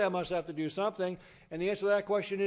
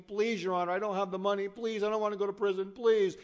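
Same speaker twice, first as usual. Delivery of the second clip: retold begging, pitched a little higher; mild mock pleading; 4 semitones higher, 4 dB louder than usual. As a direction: plead urgently, only lightly acted. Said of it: "crying and begging and pleading".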